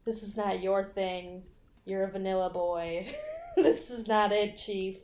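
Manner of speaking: softly condescending retold put-down; patronizing. Roommate to tied-up intruder, softly patronizing. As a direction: let them down softly, talking down. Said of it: "she's trying to be patronizing".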